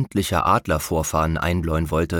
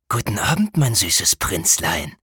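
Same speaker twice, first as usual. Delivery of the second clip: hissing villain. A narrator's reading. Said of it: "zischte der Schatten". (zischende Schurkenstimme)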